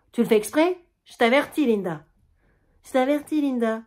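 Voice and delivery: avertissement sec et fort, voix montée; menace fâchée. Acted. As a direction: menace ta fille avant qu'elle parte. Germaine menace sa fille Linda. (la mère avertit Linda d'un ton fâché et fort)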